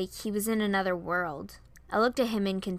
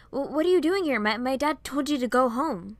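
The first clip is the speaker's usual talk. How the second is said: stammered, raised-pitch question; flustered surprise; 5 semitones higher, 5 dB louder than usual. A narrator's reading. Boy finds Piper outside his house, flustered. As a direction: blurt it out, tripping over the first word.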